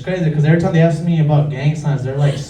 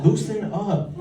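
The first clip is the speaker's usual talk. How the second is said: mock scolding buddy; 5 semitones higher than usual. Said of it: "I look at his fingers like".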